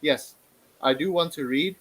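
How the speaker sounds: usual speaking voice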